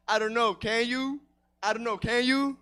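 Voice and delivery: lightly mocked teacher, lilting up at the end; teacher's stock comeback. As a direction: mimic a smug teacher's reply. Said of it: "always give me the same response".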